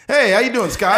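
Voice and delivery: high, loud friendly hello; upbeat greeting dropping the act; suddenly normal cheery greeting. Retold or imitated. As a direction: switch to a bright everyday greeting. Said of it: "talk all normal".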